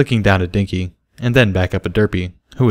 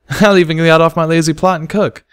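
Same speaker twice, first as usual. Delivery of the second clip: higher, louder male character voice, a little hesitant; Barry's voice; 9 semitones higher, 3 dB louder than usual. A narrator's reading. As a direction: ask about the date, a bit awkward.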